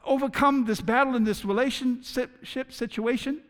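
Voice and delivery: loud, high, urgent plea to the Lord; pleading prayer. Pretend. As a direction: pray it out like you're desperate. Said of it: "And so".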